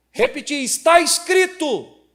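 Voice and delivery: loud, high, slow declaration. Shown as a demonstration. Pastor retells confronting a church member, loudly. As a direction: lay down the law. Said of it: "Nessa energia aqui".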